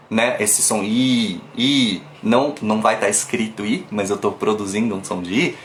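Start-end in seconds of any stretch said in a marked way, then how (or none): none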